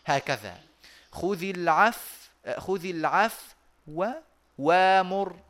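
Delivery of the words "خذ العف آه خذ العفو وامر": خذ العفو with the وامر waw rushed and softened; ikhtilas demo. Shown as a demonstration. Teacher showing students ikhtilas on خذ العفو وامر. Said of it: "نأتي بالاختلاس كيف؟ هكذا".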